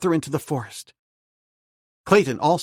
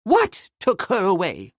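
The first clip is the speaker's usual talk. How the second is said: anxious cry; 7 semitones higher, 4 dB louder, slower than usual. A narrator's reading. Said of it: "cried Professor Porter".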